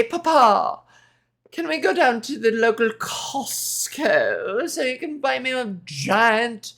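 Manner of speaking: put-on slow, pleading posh child voice; posh young London drawl. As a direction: beg Papa in a spoiled posh drawl. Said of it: "I'm gonna say".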